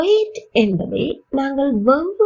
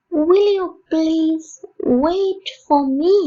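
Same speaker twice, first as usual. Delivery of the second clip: higher, slow, pleading question; slow emphatic repeat; 5 semitones higher, much slower than usual. Shown as a demonstration. Teacher repeating a polite request for learners, higher and slow. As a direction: plead slowly and pitch it up. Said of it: "repeat, higher".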